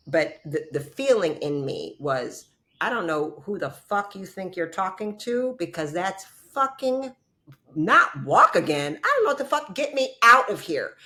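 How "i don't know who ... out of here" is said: high, louder furious outburst, slowed; indignant yell at the doctor, high and loud; retold rage. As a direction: snap back at the surgeon in fury. Retold inner rage at surgeon.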